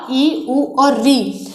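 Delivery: slow, separate vowel sounds ई, उ, री; short vowels demo. Shown as a demonstration. Teacher to children, sounding out short vowels slowly. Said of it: "ये हमारे ह्रस्व हैं".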